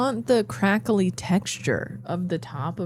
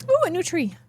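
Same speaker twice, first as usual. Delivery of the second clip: delighted; 11 semitones higher, faster than usual. Real, not acted. Delighted at a tree.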